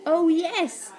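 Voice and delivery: high acted exclamation; exclaiming. A narrator's reading. Boy answers cornered Slime, exclaiming. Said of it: "exclaimed Ned".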